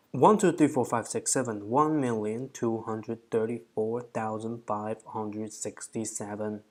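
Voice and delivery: counting digits like a robot; flat robotic number reading. Real, not acted. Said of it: "I sound like a robot".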